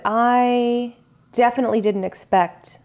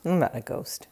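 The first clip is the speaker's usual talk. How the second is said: low soft spooky denial; breathy ghostly murmur; 7 semitones lower, 8 dB quieter than usual. Acted. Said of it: "Why do you sound like one".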